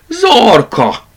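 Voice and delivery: high, loud name call; shouting. A narrator's reading. Two plush toys shouting at the rabbit Zorka. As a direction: yell for the culprit. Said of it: "kiáltották szinte egyszerre".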